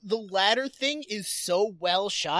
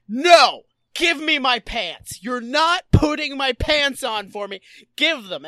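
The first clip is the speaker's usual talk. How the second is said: mock tantrum; 2 semitones higher, 5 dB louder than usual. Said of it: "him going like".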